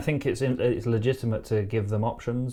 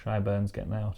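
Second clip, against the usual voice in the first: a light Geordie accent on the northern saying; relaxed Geordie accent, a little softer; 4 dB quieter than usual. Shown as a demonstration. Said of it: "You're better at accents than I am".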